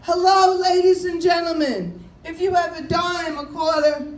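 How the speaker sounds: loud, high hammed-up subway beggar; subway panhandler pitch. Bob working the subway car, loud begging pitch. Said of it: "he goes in the subway".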